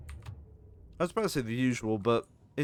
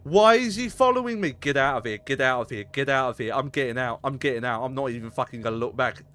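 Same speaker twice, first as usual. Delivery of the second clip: panicking gamer; 6 dB louder than usual. Real, not acted. Fleeing pursuer.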